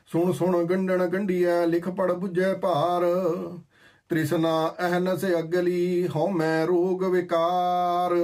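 slow, measured reciting of the verse; scripture recitation. Acted. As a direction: intone each word of the hymn deliberately. (ਹੌਲੀ ਹੌਲੀ ਗੁਰਬਾਣੀ ਦਾ ਪਾਠ)

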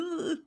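high-pitched mock groan of reluctance; reluctant groan. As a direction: squeal a reluctant ugh. Her reluctant reaction, retold.

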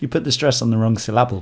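"syllable" stressed on its second syllable; deliberately misplace the stress inside "syllable"; joke misplaced stress. Acted. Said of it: "a different emphasis on every single word".

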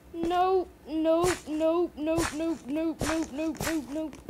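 rapid-fire nopes, loud then easing off; alarmed refusal. Real, not acted. Gamer retreating from a scary place, alarmed chanting. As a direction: fire off each nope, backing away in alarm.

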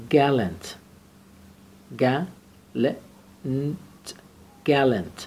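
gallant said slowly and clearly, teacher model; slow model pronunciation. Shown as a demonstration. Teacher modelling gallant for students, slow and clear. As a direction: spell out gallant clearly for the class. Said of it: "لغت هست".

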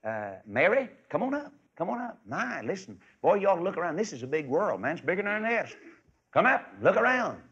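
lightly voiced excited young eagle; excited eaglet call. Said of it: "whispers back and said".

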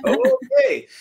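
a yelp of startled surrender; startled okay. Retold or imitated. Wife demands the last book.

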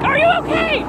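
quoting the man. Retold or imitated. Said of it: "a man that was like".

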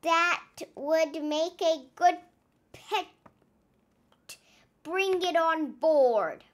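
slow hearty captain order; eager captain. Acted. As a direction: delight in the new pet. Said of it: "he shouted".

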